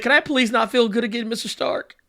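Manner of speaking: softly pleading, slightly high; mock pitiful plea. Host voicing Tom Holland to Mister Stark, mock pitiful. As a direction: beg meekly, a comic little whimper.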